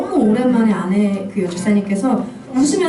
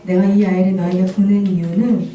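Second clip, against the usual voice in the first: God's gentle voice; 4 semitones lower than usual. Retold or imitated. God comforts the weeping mother.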